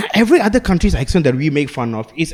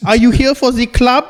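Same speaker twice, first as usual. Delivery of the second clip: mock doorman voice; 7 semitones higher than usual. Mock forest club doorman.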